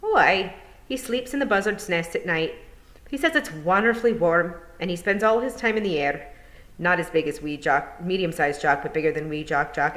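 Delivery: cheerful wee Scottish pixie. Acted. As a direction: Feegle chatting away. Feegle talks of Hamish.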